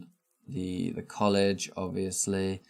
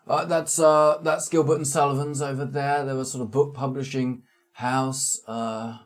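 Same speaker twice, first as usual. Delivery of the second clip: guide voice; 5 semitones higher, 4 dB louder than usual. Acted. GM voices guide, Gilbert and Sullivan.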